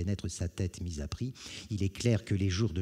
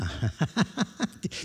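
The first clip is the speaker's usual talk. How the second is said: menacing laugh; 9 semitones higher than usual. Acted. Brigand laughs at refusal.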